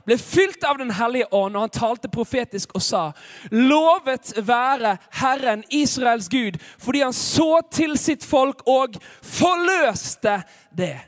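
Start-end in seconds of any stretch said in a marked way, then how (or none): 3.5-11.0 slow, emphatic scripture proclamation; proklamerende skriftlesning. A narrator's reading. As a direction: proclaim the verse, stretching key words loudly. (høytidelig, proklamerende bibellesning)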